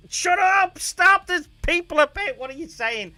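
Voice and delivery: high, loud scolding shout; high mock-yelled scolding. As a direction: shout them down, embarrassed. Retold shouting at fan.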